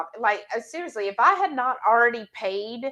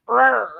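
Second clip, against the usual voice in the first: mock dog growl; 6 dB louder than usual. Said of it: "and she'll growl".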